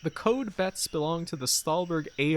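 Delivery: bright, smiling sign-reading voice; smiling tour guide. Acted. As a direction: read it like a cheerful tour guide. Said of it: "I can hear the tour guide smile in her voice".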